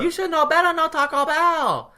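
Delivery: put-on loud, high Asian-accented scolding; ornery mock Asian accent. Hospital staffer scolding patient over lunch, mock Asian accent. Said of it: "she is ornery as hell".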